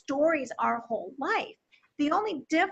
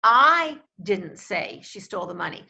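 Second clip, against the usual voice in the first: "I" hit hard and louder, the rest lower; stress on I; 5 semitones lower, 5 dB louder than usual. Shown as a demonstration. Teaching emphasis to speakers: "I" punched loud. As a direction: land the weight on the opening "I". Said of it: "but with a different word emphasized".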